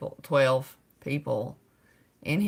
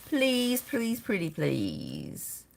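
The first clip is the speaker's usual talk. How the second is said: playful begging; 4 dB quieter, much slower than usual. Pretend.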